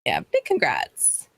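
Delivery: hushed, slow congratulations; whisper. Real, not acted. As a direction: breathe the congrats under the talk. Quiet aside congratulating.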